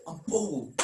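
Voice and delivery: Aaron quietly, doubting himself; deflated. Acted. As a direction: say your name like you no longer believe it. Deflated self-assertion.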